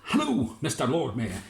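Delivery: cheerful fisherman voice; fisherman's greeting. Acted.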